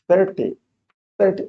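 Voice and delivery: THIR in "Thirty" stressed, second syllable weaker; stress on first syllable. Shown as a demonstration. Teacher showing where the stress falls, "Thirty" stressed on THIR. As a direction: say "Thirty" with the weight on the opening THIR. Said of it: "If you hear the stress on the first syllable".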